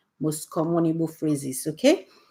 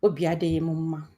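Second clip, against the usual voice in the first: sad; 2 semitones lower, 5 dB quieter, faster than usual. Shown as a demonstration. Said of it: "that means I'm sad".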